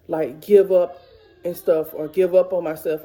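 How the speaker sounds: fighting back real tears mid-sentence; crying. Real, not acted. Mom tells viewers she won't give up, tearfully. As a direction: voice catching on tears as she speaks. Tearing up about not giving up.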